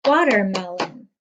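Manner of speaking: Watermelon split into clapped syllables, wa-ter-me-lon; clapping syllables. Shown as a demonstration. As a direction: clap out each beat of Watermelon. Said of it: "Clap the word watermelon with me".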